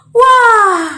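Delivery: high, loud wow; wide-open exclamation of wonder; awestruck. Shown as a demonstration. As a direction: gasp out amazement. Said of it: "terpesona sama Tuhan Yesus".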